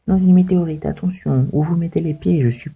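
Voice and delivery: lightly voiced small creature. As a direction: play the little creature lightly.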